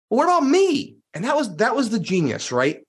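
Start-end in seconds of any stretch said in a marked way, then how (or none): 0.1-1.0 high, indignant mock protest; curmudgeon. Grumpy investor asks to be included, curmudgeonly. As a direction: imitate a cranky friend feeling left out. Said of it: "little bit curmudgeon-y at times".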